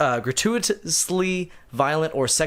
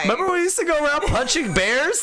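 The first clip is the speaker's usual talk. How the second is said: put-on Canadian accent; 9 semitones higher than usual. Continuing Canadian bit.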